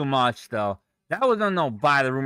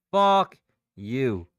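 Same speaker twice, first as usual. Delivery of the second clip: angry curse. Real, not acted. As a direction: spit it out at the screen. Cursing at the market.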